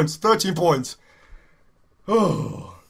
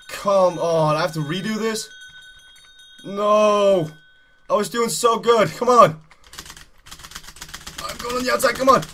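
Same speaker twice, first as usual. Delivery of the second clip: ordinary talk, nothing marked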